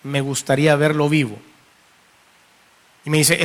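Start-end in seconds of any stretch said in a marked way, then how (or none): 0.0-1.4 low, subdued plea recalled from grief; through tears, retold. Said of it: "entre lágrimas le digo".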